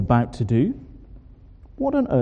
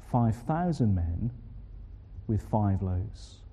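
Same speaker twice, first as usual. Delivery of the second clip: hushed awe; 5 semitones lower, 8 dB quieter, slower than usual. Acted.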